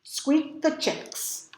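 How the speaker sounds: lively storybook read-aloud; reading to children. Acted. Teacher reading a picture book to her class, lively storytelling. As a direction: read it brightly to a class of kids.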